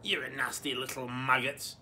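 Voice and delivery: screeching granny. Acted. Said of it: "the voice screeched back".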